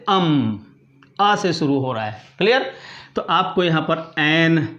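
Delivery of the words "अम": "अम" held alone, lower, as "uhmm"; isolated first sound. Shown as a demonstration. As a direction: sound out "अम" by itself. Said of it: "तो कहाँ से".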